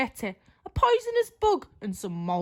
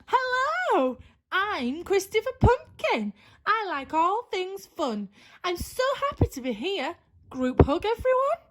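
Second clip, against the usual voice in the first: cheerful pumpkin voice; 6 semitones higher than usual. Acted. Cheerful pumpkin introduces himself.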